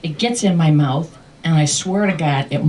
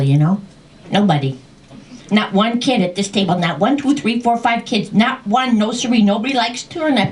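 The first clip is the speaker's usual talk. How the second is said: mildly raised scolding voice, higher as it builds; retold yelling; 4 semitones higher than usual. Dragon yelling in dad's good ear, mock scolding. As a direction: rattle it off like a mock telling-off. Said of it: "She yelled right in his good ear".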